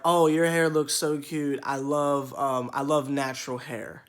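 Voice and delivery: a hint of a gushing admirer; gushing stranger. Natural hair fan complimenting him, mock gushing. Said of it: "they'll say things like".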